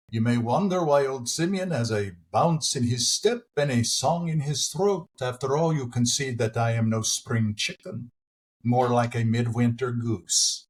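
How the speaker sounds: put-on old Simeon joking to the congregation in a Jewish accent; Tevye's Jewish accent. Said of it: "my Tevye accent".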